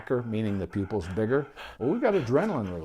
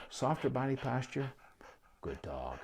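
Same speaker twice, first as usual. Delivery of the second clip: calm quiet praise; 3 semitones higher, 7 dB quieter than usual. Shown as a demonstration. Owner glancing back to reward the calmer dog, hushed and soft. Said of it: "very calmly reinforce".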